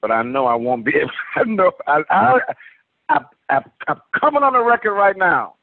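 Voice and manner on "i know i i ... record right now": fighting back real emotion, words catching; choked with emotion. Real, not acted. To the listeners, admitting he'll get emotional, voice catching high. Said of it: "I'm gonna be very emotional".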